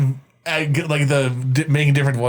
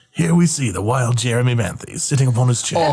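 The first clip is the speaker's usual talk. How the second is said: lightly voiced nature documentary narrator; David Attenborough. Narrating a friend as wildlife on the podcast, David Attenborough impression. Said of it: "I kinda do that, that, uh, David Attenborough".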